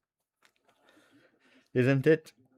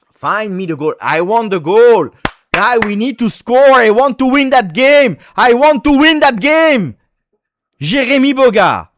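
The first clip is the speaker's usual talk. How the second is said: higher and louder, growing to a desperate yell; building excited shouts; 11 semitones higher, 10 dB louder than usual. Real, not acted. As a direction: urge the team on at the top of your voice. Fan urging team to score.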